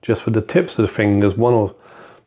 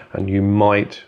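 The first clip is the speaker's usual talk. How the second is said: might given extra weight; stress on might; slower than usual. Shown as a demonstration. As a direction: lean on the word might. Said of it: "I stress the word might".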